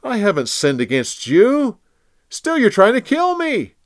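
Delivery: high, loud, earnest appeal; David pleading with King Saul from afar; impassioned plea. Acted. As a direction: plead your innocence with all your heart.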